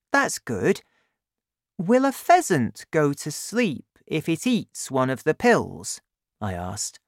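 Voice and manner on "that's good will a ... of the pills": put-on higher boy's voice, curious; eager boy asking his dad; young Danny. Danny asks, voiced high.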